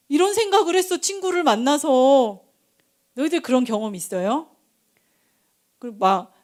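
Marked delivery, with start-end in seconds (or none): 0.1-2.4 put-on raised, higher child's voice; child confiding in Mom. Child telling mom about a friend, high and insistent. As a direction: play a child blurting it out to Mom.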